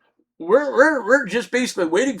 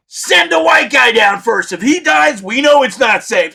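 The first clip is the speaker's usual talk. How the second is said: mock shouted order; 3 semitones higher, 6 dB louder than usual. Coworkers' plan, retold mocking.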